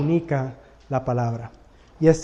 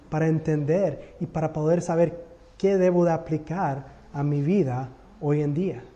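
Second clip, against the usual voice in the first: soft, humble prayer to the Lord; quiet prayer; 4 dB quieter than usual. Shown as a demonstration. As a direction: pray it gently, asking for understanding. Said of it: "pídele". (oración suave y humilde)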